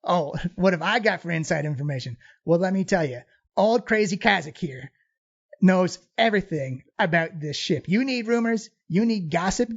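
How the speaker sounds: a lightly voiced boastful goblin, gossipy; chatty goblin cook. Goblin cook boasting to the new crew, lightly voiced. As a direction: sell yourself as the ship's gossip.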